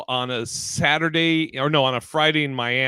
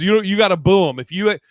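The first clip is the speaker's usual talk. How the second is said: host urging crowd; 5 semitones higher, 6 dB louder than usual. Retold or imitated. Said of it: "He goes".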